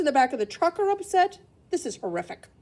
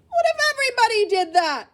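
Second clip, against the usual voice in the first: higher, louder stern store manager; manager scolding; 11 semitones higher, 6 dB louder than usual. Acted. Store manager stopping a boy with a grocery cart, stern. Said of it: "she said".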